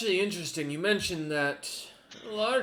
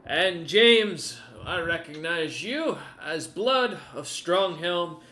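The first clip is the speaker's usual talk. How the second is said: formal lord; 2 semitones higher, 4 dB louder, much slower than usual. Acted. Lord's formal recognition.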